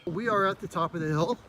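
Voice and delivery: breathless after the climb; winded from walking uphill; out of breath. Real, not acted. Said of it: "I'm out of breath just walking up here".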